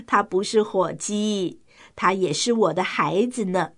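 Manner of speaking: softly relieved mother duck. Acted. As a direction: say it softly, reassured. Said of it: "很放心地说". (放心温柔地说)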